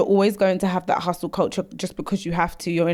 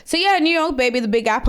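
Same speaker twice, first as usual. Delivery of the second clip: put-on New York accent; 4 semitones higher than usual. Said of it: "That was so New York".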